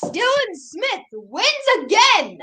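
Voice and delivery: sports announcer. Acted. Announcing own race win.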